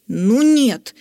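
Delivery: a touch of knightly rage; boiling over. Acted. Sir Lobotryas angrily refusing Zok. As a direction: snap back in anger. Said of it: "вскипел сэр Лоботряс".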